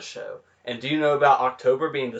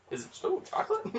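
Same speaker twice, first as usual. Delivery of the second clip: laughing; 9 dB quieter, faster than usual. Real, not acted. Laughing question.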